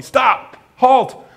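loud frantic guesses at the donkey; mock yelling. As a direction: fumble for the magic word in a panic. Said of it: "started yelling at the donkey".

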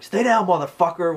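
tough one-liner. Retold or imitated. Brandon Lee to the beaten thug, mock-tough. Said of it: "He's like".

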